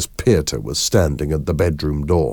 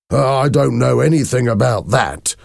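higher-pitched, nervous denial; uneasy denial; 7 semitones higher, 3 dB louder than usual. A narrator's reading. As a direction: deny it while caught off guard. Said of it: "Rudy Hoven's face became white".

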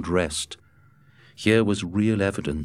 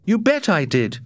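higher, puzzled Matt voice; 12 semitones higher, 4 dB louder than usual. A narrator's reading. Matt puzzling over the wolf to Scott, higher and puzzled. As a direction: pitch Matt up, wondering aloud. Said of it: "was the reply".

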